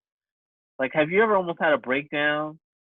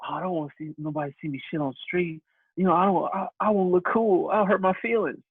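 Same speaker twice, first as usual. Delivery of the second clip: lightly voiced whiny worrier; a touch of mock fretting, pitched up; emotional person; 4 semitones higher than usual. Emotional person afraid of being seen, mildly fretful. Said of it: "emotional person would be like".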